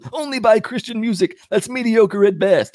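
high, menacing cartoon clown; evil clown voice. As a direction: threaten like a sinister clown. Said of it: "the secular C D smashing clown".

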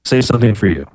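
choppy audio dropping out; glitchy robotic call. Real, not acted. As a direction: voice breaking up on the call. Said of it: "you're still breaking up there".

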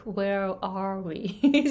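slow, careful "Where are we?" with a rise on "we"; correct simple sentence. Shown as a demonstration. Coach showing the sentence she could not build, slow and careful. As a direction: spell the correct phrase out slowly. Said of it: "like, simple sentence".

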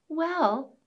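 high squeaky mouse voice; a small high mouse; tiny squeaky critter. Acted. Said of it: "said the little mouse".

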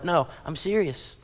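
ordinary talk, nothing marked

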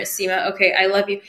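"I love you" tossed off, lightly grudging. Retold or imitated. Recalling her reluctant mirror work, lightly grudging. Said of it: "with so much resistance".

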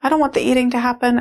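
put-on high, frantic child pleading to make it stop; retold hysterical inner child; hysterical little girl. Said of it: "And she just said".

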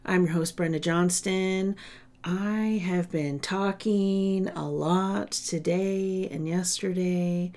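hoarse, worn-out voice; raspy from talking all day; smoker's rasp. Real, not acted. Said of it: "my voice is a little ratchety sounding".

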